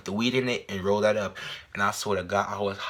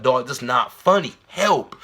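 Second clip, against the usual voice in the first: mock panic; 5 dB louder, slower than usual. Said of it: "freaking out and screaming".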